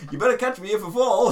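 put-on high, loud child's demand; bossy little kid. A kid on the climbing frame, high and demanding. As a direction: order it like a cheeky kid.

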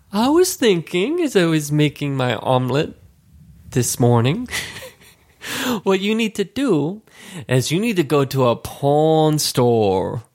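coworker's Asian accent, put on for humour; imitated Asian accent. Coworker giving him advice in an imitated Asian accent. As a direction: imitate her Asian accent, stretching the final words. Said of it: "when I imitate her voice".

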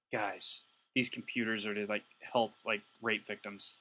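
lightly voiced guilty thief pleading with the crew. One burglar urging the group to return computers, hushed. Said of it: "one guy ... must have thought".

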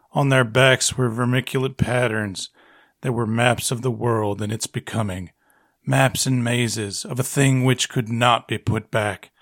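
a hint of an old Western narrator; old-timey Western voice. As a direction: read it like a lightly drawled frontier storyteller. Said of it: "quickly read in an old-timey Western voice".

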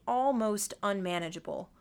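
"almost" set apart with extra weight; stress on ALMOST. A narrator's reading. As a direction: put clear emphasis on the word "almost". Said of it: "with emphasis on the word almost".

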